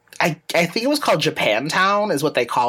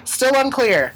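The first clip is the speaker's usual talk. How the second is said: coy; 8 semitones higher, slower than usual. Real, not acted. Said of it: "Valentine's Day update".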